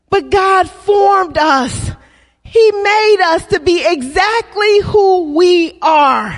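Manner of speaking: preaching shout. Real, not acted.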